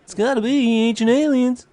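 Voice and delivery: slow, high conspiracy voice; drawn-out ancient aliens host; ancient aliens guy. Pretend.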